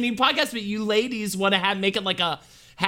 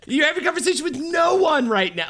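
laughing; 7 semitones higher than usual. Real, not acted. Laughing at friend's outburst.

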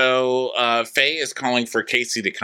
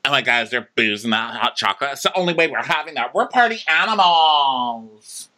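mock party guests; 6 semitones higher than usual. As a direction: lightly play the rowdy guests, rushing. Guests asking for booze.

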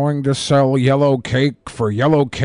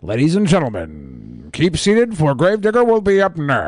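booming monster truck rally announcer; 2 semitones higher than usual. Retold or imitated. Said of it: "talks like he's an announcer at a fucking, uh, monster truck rally".

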